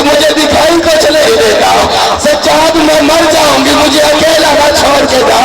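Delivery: put-on high lamenting child's cry; crying plea. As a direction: beg not to be left alone, weeping. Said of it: "रो के कहती".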